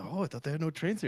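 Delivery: high, soft mock British tourist; bad British accent. British tourist surprised by American trains, put-on British accent. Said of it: "like, a little British couple coming in".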